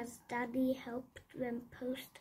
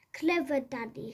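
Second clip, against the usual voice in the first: quick bright praise of Daddy; a quick cheerful well done; lightly praising, quick; 4 dB louder, faster than usual. Acted. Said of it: "said Squeak".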